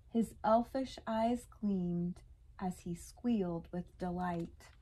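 measured, lilting rhymed storytelling; children's story narration. A narrator's reading. Reading a Hanukkah elf story to kids, lilting storytelling. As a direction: read the rhyming picture book to listening kids.

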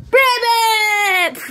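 shrill croaking ribbit. Pretend. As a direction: croak it out like a frog. Frog croaks loudly.

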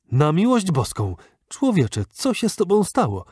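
the doctor cries out at the ragged man; shocked cry. A narrator's reading. Doctor to the battered traveller, a shocked cry. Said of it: "krzyknął lekarz".

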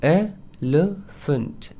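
एलिफेंट stretched, EL-uh-funt; very slow demo. Shown as a demonstration. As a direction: drag out एलिफेंट slowly. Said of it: "correct pronunciation होगा".

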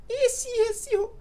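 very high, slowly stretched squeak; squeaky little voice. Shown as a demonstration. Youtuber showing how the catchphrase began, in a squeaky voice. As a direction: drag each word out in a tiny high voice. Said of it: "com essa vozinha".

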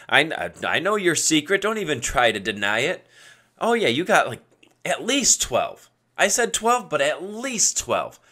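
joking, playful buttering-up; upbeat flattery. Retold or imitated. Buddy flattering the sandwich guy, upbeat and joking. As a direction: pile on the compliments with cheeky upbeat emphasis. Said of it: "say it very upbeat".

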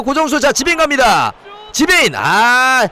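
rising commentary call as the play builds; shouting play-by-play at the screen; excited shout. Real, not acted.

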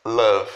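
Love with a short uh vowel, like â; the right Love; correct pronunciation. Shown as a demonstration. Teacher models the correct Love for students. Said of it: "como se fosse um A com acento circunflexo".

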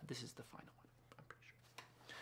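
whispered under the breath, mostly to herself; half-voiced self-check whisper; muttered aside. Real, not acted. Artist checking her paintings, in a whispered aside.

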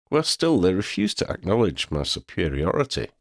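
a touch of a proud cat telling his tale; proud cat Xander, recounting. Acted.

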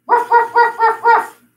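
high playful woof woof, laughing; silly dog barks. Pretend. Teacher teasing kids in cow pose, playful high barking. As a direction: bark like a puppy to tease the kids. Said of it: "Oh, no, we don't say that".

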